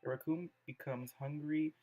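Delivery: measured reading aloud with pauses between phrases; poem reading. Acted. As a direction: read the poem out carefully, phrase by phrase. Reads Yuri's poem aloud.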